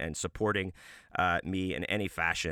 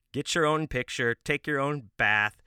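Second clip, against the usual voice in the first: louder, higher mock outrage; mock indignant scolding; 5 semitones higher, 4 dB louder than usual. Comedian scolding copycat posers, hammed-up indignation.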